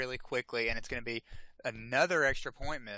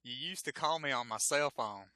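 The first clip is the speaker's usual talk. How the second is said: put-on thick Southern accent. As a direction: play up the Southern accent on "cell phone". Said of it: "real thick Southern accent".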